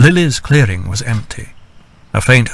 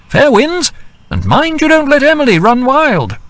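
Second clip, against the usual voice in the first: high female voice, light and teasing; Edith's voice. A narrator's reading. Edith calling down a teasing farewell before flying off. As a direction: call a cheerful goodbye from above.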